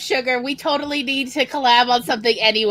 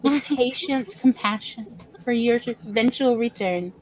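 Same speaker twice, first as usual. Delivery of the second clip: solemn mock cult; 5 dB quieter than usual.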